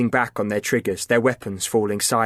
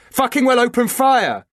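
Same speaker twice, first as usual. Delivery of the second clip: much higher, loud screamed order; furious shout; 13 semitones higher, 5 dB louder than usual. A narrator's reading. Liam screaming at Chris to shoot, furious shout. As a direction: scream it over the guns. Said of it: "he yelled".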